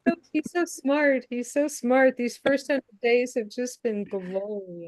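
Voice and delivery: high gush settling into a slow swoon; fawning reporter. Pretend. Adoring reporter praising the first hundred days, fawning. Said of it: "new media in there that say".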